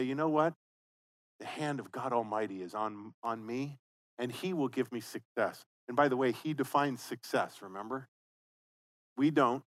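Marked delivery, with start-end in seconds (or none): 0.0-5.6 calm declaration. Retold or imitated. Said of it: "Just say".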